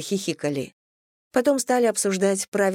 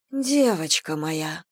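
tender; much slower than usual. Acted. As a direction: murmur it, stunned. Mother stunned by news. (нежно и растерянно)

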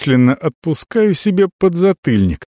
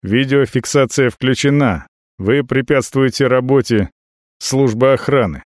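flat mechanical robot voice. Acted. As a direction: speak like a machine, no emotion. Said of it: "голосом робота говорит".

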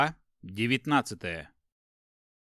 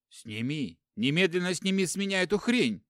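higher, louder enraged demand; furious; 6 semitones higher, 3 dB louder than usual. Acted. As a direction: bark it in fury at the brother. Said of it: "взъярился он". (яростный крик)

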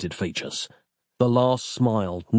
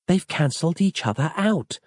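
female character voice; 7 semitones higher than usual. A narrator's reading. Roz speaking in narration.

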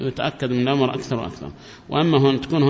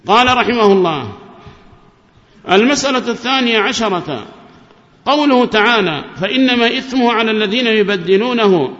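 loud, higher formal reading of a book; reading the text aloud; 7 semitones higher, 5 dB louder than usual. Acted. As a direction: read the scholar's text to the class. Student reads the text aloud. (قراءة متن بصوت عالٍ أمام الشيخ)

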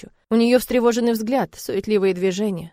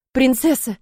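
exclaiming; 5 semitones higher, 6 dB louder, slower than usual. Acted. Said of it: "восклицает он".

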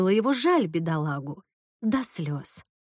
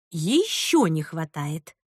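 slow, lower dismissal; curt refusal; 5 semitones lower, much slower than usual. A narrator's reading. Grandmother refusing the offer, curt. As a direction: shut it down flatly. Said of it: "отрезала Марина".

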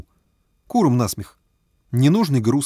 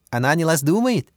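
put-on higher accented question; Chinese accent Russian; 4 semitones higher than usual. A narrator's reading. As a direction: Bao asks in accented Russian. Bao asks.

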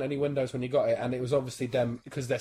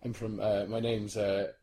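put-on Irish accent; 4 semitones lower, 6 dB quieter than usual. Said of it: "I'm Irish".

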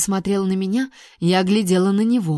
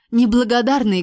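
barked; 3 semitones higher, 3 dB louder than usual. Acted. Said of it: "гаркнула я".

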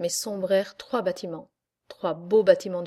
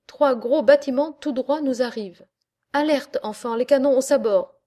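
loud, higher cry of alarm; alarmed shout; 4 semitones higher, 6 dB louder than usual. Acted. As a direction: call the crew to the guns. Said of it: "cria aussitôt le grand marin".

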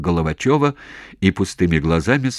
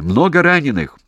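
loud, higher yell; shouting; 8 semitones higher, 6 dB louder than usual. Acted. Soldier shouting to commander about wounded. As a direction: call out over the explosions.

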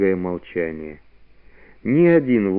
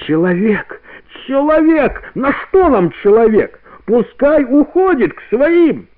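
high howling cries of the pack, much higher and louder; wolves howling; 14 semitones higher, 4 dB louder than usual. A narrator's reading. The wolf pack howls against the man-cub, high and loud. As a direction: howl the words like a pack of wolves. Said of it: "стаи завыло".

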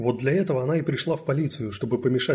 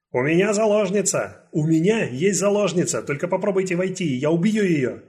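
loud, higher threatening yell; killer shouting; 7 semitones higher, 5 dB louder than usual. Acted. Killer shouts threats at police through the door. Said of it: "убийца кричит".

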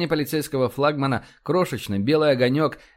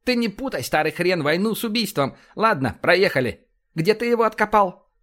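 higher, lively commander voice; blustering, animated officer, pitched up; brash police commander; 6 semitones higher than usual. Acted. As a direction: rattle off orders like a blunt cop boss.

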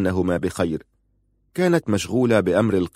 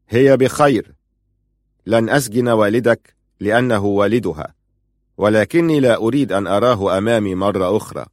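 sharp and louder, cutting him off; 3 dB louder than usual. Acted. Prince dismissing Mohamed's plea, sharp and louder. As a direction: bite the words off, curt and cold. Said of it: "قال في حدة".

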